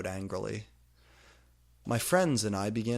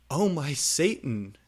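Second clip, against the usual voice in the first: mock gasp; 5 semitones higher, 5 dB louder than usual. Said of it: "gothic exclamation".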